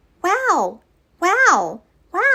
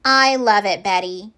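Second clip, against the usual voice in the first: tender mom; slower than usual. Acted. Mom reassures Betty tenderly.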